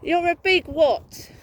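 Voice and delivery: slow taunting repeat. Real, not acted. Woman taunting her harasser again, slow and loud. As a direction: drag out "big" to mock him.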